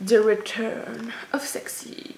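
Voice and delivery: slow, drawn-out English in a French accent. Real, not acted. Vlogger reading the palette name, slow French-accented English. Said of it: "avec mon accent".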